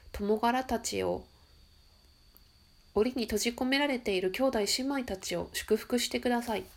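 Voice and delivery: ゆっくり厳かな祈りの読み上げ; 祈りを捧げるように静かに読む; 祈りの朗読. Acted. Reads a prayer aloud. (地球を癒す祈りを聞き手に読み聞かせる、厳かな朗読)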